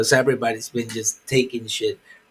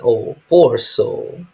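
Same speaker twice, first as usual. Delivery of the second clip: mock pity; 7 dB louder, slower than usual. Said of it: "It's like".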